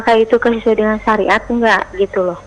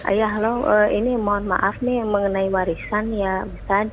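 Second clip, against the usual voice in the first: barely audible; 5 dB quieter than usual. Real, not acted. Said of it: "mohon dikeraskan suaranya ya".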